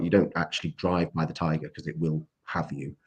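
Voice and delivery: hushed whisper about the tiger; whispered aside. Real, not acted. Warning that the tiger will have you, whispered. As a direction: lean in and whisper the danger.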